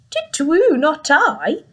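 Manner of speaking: high, loud owl hoot. Acted. Owl answering the Gruffalo's child with a high hoot.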